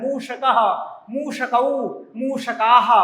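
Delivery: मूषकः, मूषकौ, मूषकाः with a clear retroflex ष; retroflex pronunciation drill. Shown as a demonstration. Teacher drilling pupils on मूषकः, मूषकौ, मूषकाः, retroflex ष. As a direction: sound the ष of मूषकः, मूषकौ, मूषकाः from the roof of the mouth, pausing between words. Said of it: "मूर्धा से इसका उच्चारण होता है।".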